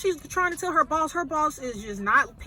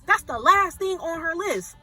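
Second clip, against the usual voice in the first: fast, louder, higher, worked-up; indignant rant; 4 semitones higher, 5 dB louder, faster than usual. Real, not acted. Teller ranting to viewers about the boss, worked up. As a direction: rattle it off in disbelief.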